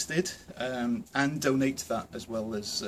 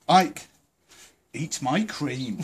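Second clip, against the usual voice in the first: mock command; 4 dB louder, much slower than usual. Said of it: "I have not said this to him for such a long time".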